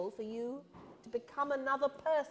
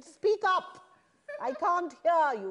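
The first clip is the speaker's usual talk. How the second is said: bossy demand; 4 semitones higher than usual. Retold or imitated. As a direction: snap at a nervous newcomer. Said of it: "She said".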